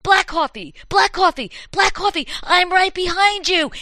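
shrieking high ghostly taunt. Acted. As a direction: go very high, right behind. Ghost climax.

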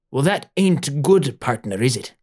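put-on lightly piratey old doctor; too-piratey accent. Swarthy doctor appraising Mama Leslie, piratey accent. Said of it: "that's too piratey".

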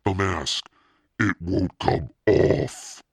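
high, loud, slowing to a stretched final word; panicked cry. A narrator's reading. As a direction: build to a drawn-out cry of panic. Panicked girl stuck in the mask.

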